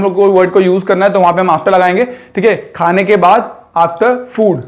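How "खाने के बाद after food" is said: both phrases said very slowly; walk learners through slowly; slow demo. Shown as a demonstration. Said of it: "teacher models the phrase". (धीरे-धीरे समझाना)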